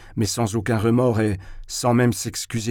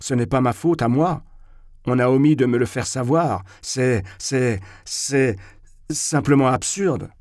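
rising irritation, faltering; flustered, stumbling protest; énervement croissant; 2 semitones higher than usual. Acted. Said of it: "en m'énervant de plus en plus". (de plus en plus énervé)

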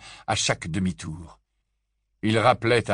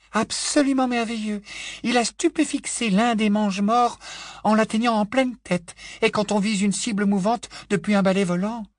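put-on raised, enthusiastic young woman; Tonk's voice; 13 semitones higher than usual. Tonk praises Ron to Hermione, raised and eager. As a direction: praise Ron with gusto, pitched up.

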